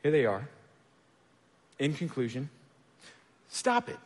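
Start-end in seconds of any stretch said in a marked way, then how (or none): 3.5-4.0 blunt punchline. Acted. Punchline to anxious congregation.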